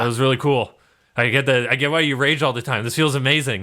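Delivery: a touch of giddy post-battle exhilaration; breathless crewman. Acted. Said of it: "He's breathing heavily, and he's like".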